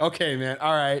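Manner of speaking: mock-casual laughing. Recounting a confrontation, quoting the man's reply, retelling a casual laughing reply. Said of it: "his laugh wasn't freaky or anything".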